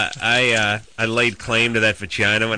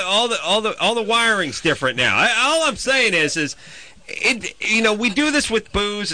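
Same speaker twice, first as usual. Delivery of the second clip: worked-up rant; 5 semitones higher than usual. Real, not acted. Heated rant about age laws.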